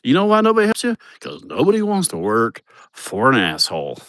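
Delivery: high mocking jab that drops at the end; teasing Amanda. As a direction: imitate Amanda needling him. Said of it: "Amanda goes".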